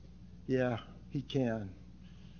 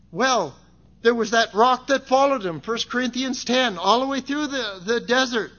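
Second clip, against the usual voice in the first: raised, driving sermon delivery; impassioned preaching; 9 semitones higher, 8 dB louder than usual. Real, not acted. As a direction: preach the story with fervor. Preaches on God's provision.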